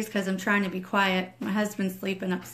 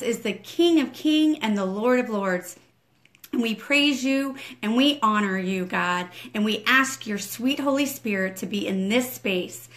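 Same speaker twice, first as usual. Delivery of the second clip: fervent prayer; 2 semitones higher than usual. Acted. Ministry director opens the morning teaching in prayer, fervent rising prayer. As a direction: pour it out to God, rising as you go.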